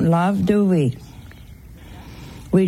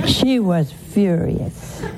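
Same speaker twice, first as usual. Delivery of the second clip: laughing; slower than usual. Real, not acted. Laughs retelling widow's anger.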